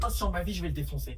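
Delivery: loud outburst of anger; angry threat. Acted. Sister swears to go after her brother, angry outburst. Threat in acted sibling quarrel.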